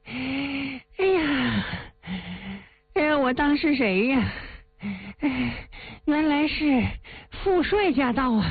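villain mocks the commander he didn't expect; sneering villain. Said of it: "他嘿嘿一声冷笑啊". (反派阴阳怪气地嘲讽朱元璋)

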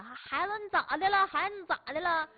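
high, loud alarmed mother; worried mom calling. Retold or imitated. Mother calling to her stung child, loud and alarmed. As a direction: call out to the crying child.

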